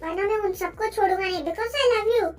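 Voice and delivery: jealous, insistent outburst; vehement refusal. Acted. Vampire refusing to let Jimin leave him, vehement. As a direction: punch the repeated refusals hard.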